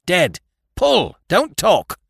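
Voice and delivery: high, hard barked commands; curt shouted orders. Acted. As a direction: cut him off and drive them on. Captain's curt orders while rowing.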